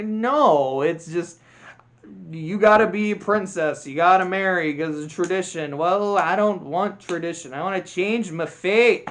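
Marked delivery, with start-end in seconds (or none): 2.3-9.1 hammed-up, higher Scottish accent; mock Scottish movie dialogue; bad Scottish accent. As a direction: attempt a Scottish accent, badly. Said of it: "I can't do a Scottish accent".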